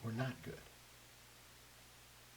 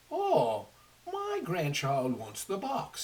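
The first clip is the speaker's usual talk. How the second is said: louder, higher, slow grandfather voice; a grandfather giving in, louder and slower; Sky Chief; 6 semitones higher, 9 dB louder, slower than usual. Acted. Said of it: "said the Sky Chief".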